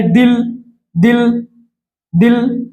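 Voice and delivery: दिल opening on dental द; soft D sound. Shown as a demonstration. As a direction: repeat दिल to model the dental द. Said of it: "अगर हमारा द देखिए".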